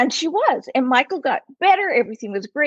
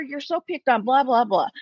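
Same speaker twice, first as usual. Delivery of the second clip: sympathetic whining; 6 semitones higher than usual. Retold or imitated. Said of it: "I would just go".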